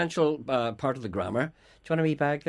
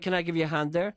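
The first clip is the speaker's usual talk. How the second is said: intrusive; 2 semitones higher than usual. Shown as a demonstration. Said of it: "it sounds, you know, threatening".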